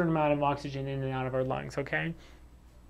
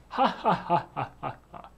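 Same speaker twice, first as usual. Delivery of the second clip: wrong way: stiff ha ha ha said with the lips only; mock laugh, mouth only. Shown as a demonstration. Teacher shows students the wrong way to laugh, stiff mock laugh. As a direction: demo a fake laugh that barely moves. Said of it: "we don't go like this".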